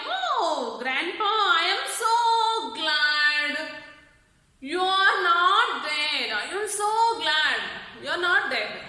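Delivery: put-on sing-song, overjoyed girl; glad child. Granddaughter greets her grandfather, half singing for joy. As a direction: cry it out with joy. Teacher voices Victoria's glad cry.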